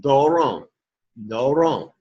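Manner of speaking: "doron" with its first syllable gliding low to high, then falling; circumflex tone. Shown as a demonstration. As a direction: arch the pitch up over "do" and down on "ron". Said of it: "you would start low, go high".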